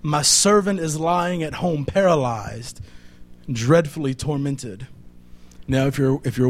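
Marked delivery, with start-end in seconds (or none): 0.0-4.9 pleading. Acted.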